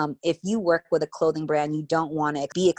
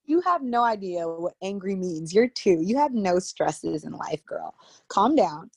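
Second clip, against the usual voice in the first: mock scolding mom; 3 semitones higher than usual. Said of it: "And I'm like".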